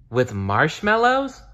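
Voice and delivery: high, bright eager question; eager little bear. Acted. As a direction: ask hungrily and hopefully.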